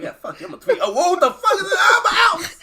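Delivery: a trash-talking bird fleeing; cocky bird voice. Pretend. The bird taunting then fleeing, rising mock squeal.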